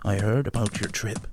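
lightly voiced English adventurer; a hint of a cocky English captain; John Smith voice. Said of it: "I can imagine the posting on ye old Reddit now".

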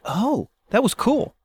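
high, slow, lightly mock-impressed; a listener won over, drawn out. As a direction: listener suddenly won over, mildly wowed. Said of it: "but you're like".

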